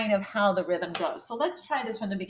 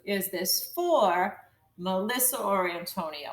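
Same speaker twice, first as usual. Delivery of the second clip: group "Is this for" and "Melissa or Antonio" as two scoops; scooped phrasing; 2 semitones lower, 3 dB quieter than usual. Shown as a demonstration. Teacher marking the scoops, two-part phrasing. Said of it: "part of this scoop".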